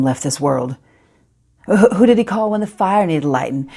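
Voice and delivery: lightly voiced Southern girl, building indignation; Phoebe. Phoebe retells her mama's plea at the stove, mildly indignant pleading. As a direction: grow from hushed memory into pleading protest. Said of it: "The character is Phoebe".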